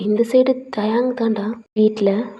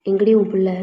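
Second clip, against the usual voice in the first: angry demand; 3 dB louder than usual. Acted. Angry father demands missing son.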